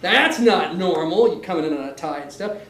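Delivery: teasing remark. Acted. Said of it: "You're saying".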